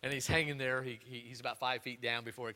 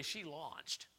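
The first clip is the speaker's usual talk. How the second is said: quiet setup; 6 dB quieter than usual. Shown as a demonstration. Pastor telling the church about Allie, quiet. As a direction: hold it back under the breath. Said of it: "said twice, quiet then loud".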